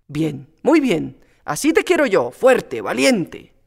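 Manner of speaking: put-on an old priest cheering her on; vicar's approval. Priest encouraging Pepita to forget don Luis, approving.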